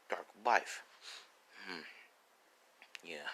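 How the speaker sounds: very soft, low murmur; private musing. Acted. Ryu weighs the boy as successor, musing very quietly. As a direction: think aloud almost in a whisper, low and unhurried.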